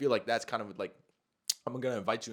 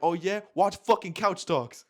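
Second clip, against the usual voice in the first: loud, raised, defiant comeback; mock-tough bravado; 6 semitones higher, 6 dB louder, slower than usual. Him answering her threat, retold with cocky bravado. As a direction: draw the last words out as a challenge. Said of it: "I said it like I had something on me".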